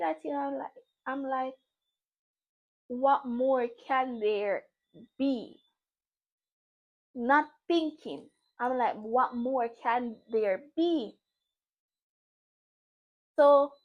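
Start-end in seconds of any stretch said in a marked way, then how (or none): 2.9-5.6 drawn-out disbelief. Retold or imitated. Disbelieving question in retold confrontation. 9.0-11.2 drawn-out disbelief. Retold or imitated. Repeats the disbelieving question.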